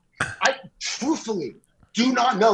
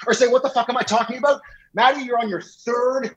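higher, pressing warning; heated ultimatum; 4 semitones higher than usual. Real, not acted. Warns Maddie he is on his final strike, heated and higher. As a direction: lay down the last strike.

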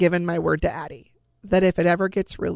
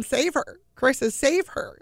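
anguished plea; 7 semitones higher, slower than usual. Retold or imitated. Parents begging, retold in grief.

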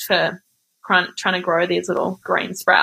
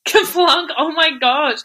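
surprised; 7 semitones higher than usual. Real, not acted. Delighted surprise at game name.

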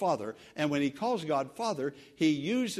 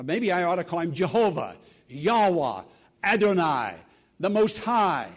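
proclaiming loudly; 7 dB louder than usual. Acted. Preacher to congregation, loud proclaiming of holy names. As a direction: ring out each grand name, louder and quicker.

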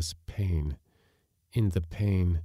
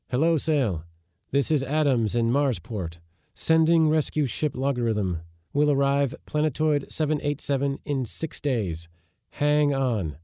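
raised, projected radio reply; rescue dispatcher; 8 semitones higher, 4 dB louder than usual. A narrator's reading. Marsport operator answers the castaway, as rescue dispatcher. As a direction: call it through clearly, pitched up.

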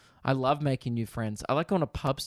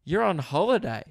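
high, loud bright exclamation; cheery nosy guess; imitating neighbour; 7 semitones higher, 6 dB louder than usual. Neighbour guessing they are on holiday, high and loud. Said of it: "They're like".

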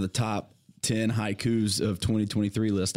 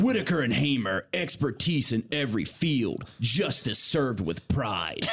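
slow ad read, dragged out ending; promo read; slower than usual. Shown as a demonstration. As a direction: announce it like an ad. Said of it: "See if it'll write a promo".

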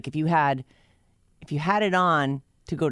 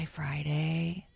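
whispering; 2 semitones higher, 6 dB quieter, slower than usual. Pretend. Greeting Friday like a lover.

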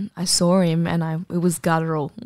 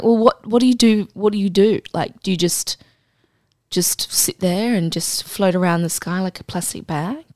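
mock indignant rant. Retorting to imagined critics.

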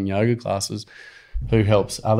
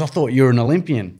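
laughing mock quote; 3 semitones higher than usual. Mock quote of cheeky kid.

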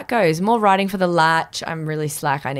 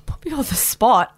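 breathy whisper, pitched up; 5 semitones higher than usual. Real, not acted. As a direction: whisper it like you're caught out. Put on the spot, whispered.

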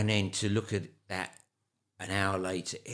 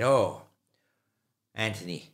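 put-on Irish accent; 4 dB louder than usual. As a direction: lay on a gentle Irish accent. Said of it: "He was an Irishman, so I'll give it to you".

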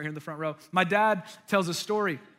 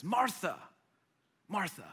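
soft name, repeated more softly; calming appeal; 6 dB quieter than usual. Retold or imitated. Jesus looking at upset Martha, calming her. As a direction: say her name gently, pausing before the repeat. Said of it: "he's trying to calm her down".

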